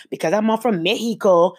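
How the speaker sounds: lightly mimicked stereotypical Mexican accent; a touch of mock Mexican accent; fake Mexican accent. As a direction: imitate someone putting on a fake Mexican accent. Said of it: "in the fake Mexican accent".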